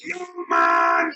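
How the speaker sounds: loud stern shout. Real, not acted. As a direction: call him back firmly. Repeated call, shout heard.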